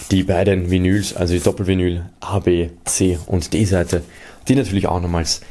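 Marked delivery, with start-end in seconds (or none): none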